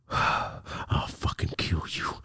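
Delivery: slow, hushed, whispered threat; sigh, then whisper it murderously; menacing look voiced. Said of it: "look on her face of".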